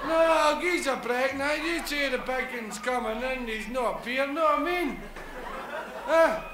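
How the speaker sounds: a hint of a cheeky Glaswegian; lightly voiced wee man, a bit aggrieved; wee apostle. Wee apostle moaning to the big apostle, mock grievance.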